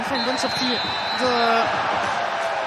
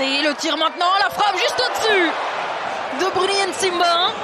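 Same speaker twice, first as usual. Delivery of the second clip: excited sports commentary; 3 semitones higher than usual. Real, not acted. Shot just over.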